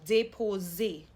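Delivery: déposer with "ay" in first and last syllables; closed A sounds. Shown as a demonstration. Teacher showing learners the acute accent, closed A sounds. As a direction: say déposer as day-po-zay. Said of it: "do you hear that A sound".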